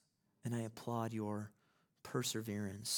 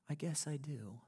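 whispered, hesitant reply; hushed admission; 6 semitones higher than usual. Retold or imitated. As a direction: breathe it out as a reluctant confession.

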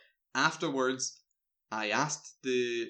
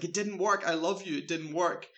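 higher-pitched pleading, lightly acted; retold desperate confession; 5 semitones higher than usual. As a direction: plead it out, half in character. Retold mother's confession in a dream.

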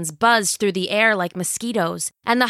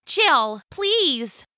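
higher, pleading mother voice; 7 semitones higher than usual. Acted. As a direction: beg her gently to stop.

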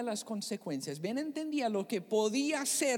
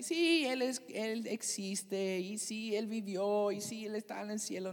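mock dismissive faith. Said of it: "no estoy diciéndome así".

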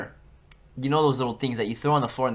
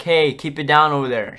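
louder call of "keep it down" across the class; mock teacher shout; 3 semitones higher, 9 dB louder than usual. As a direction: bark it at the back row like a normal teacher. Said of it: "She will not go like".

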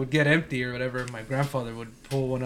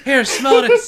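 grandpa voice; 11 semitones higher, 11 dB louder, slower than usual. Retold or imitated. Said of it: "He'd be like".

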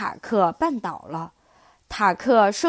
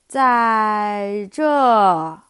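drawn-out sloth reply; 4 dB louder than usual. Acted. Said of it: "一句拖了很长音的回答".

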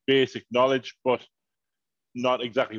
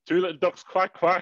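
bingo caller; 7 semitones higher than usual. Pretend. Echoing the bingo call.

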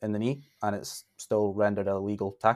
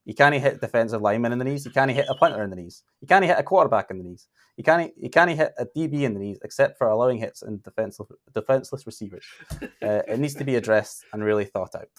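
a light mock Scottish accent, a touch louder; 3 dB louder than usual. Shown as a demonstration. Host quoting Brady's rant in a light Scottish accent. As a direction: rant it like a mild stage Scot. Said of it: "I'm gonna do it in a thick Scottish accent".

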